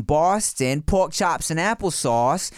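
slow demo of a Boston accent. Shown as a demonstration. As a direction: draw the words out in a put-on Boston accent. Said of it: "A Boston British accent".

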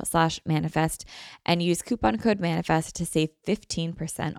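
even, scripted podcast ad read; sponsor ad read. Real, not acted. Host promoting a wellness brand to listeners, ad read. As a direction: read sponsor copy clearly, spelling out the web address.

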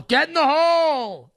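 high, loud drawn-out holler; golf fan's yell. Acted. Fan heckling a putt to win the Master, yelled. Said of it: "and you just yell".

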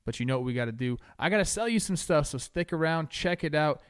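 ordinary talk

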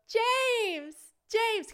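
high-pitched call across the slope. Retold or imitated. Friend calls to James after getting off the lift, calling out. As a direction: call his name from a distance.

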